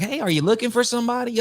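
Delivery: light, easygoing friendly question; nice, friendly voice. Retold or imitated. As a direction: imitate a pleasant guy casually offering help. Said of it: "he got a nice sounding voice".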